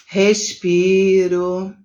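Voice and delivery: drawn-out, breathing "respiro"; showing how she stops and breathes; slow demo breath. Shown as a demonstration. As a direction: let the word breathe out slowly. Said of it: "aí eu".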